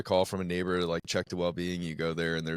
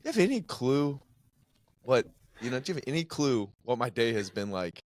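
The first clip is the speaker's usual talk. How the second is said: raised, exasperated rant; venting at the caller, voice pitched up; 6 semitones higher than usual. Retold or imitated. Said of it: "It's like".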